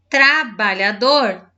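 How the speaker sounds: "trabalhador" in slow, measured chunks; separated syllables. Shown as a demonstration. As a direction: stretch out "trabalhador" firmly. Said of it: "Você vai separar".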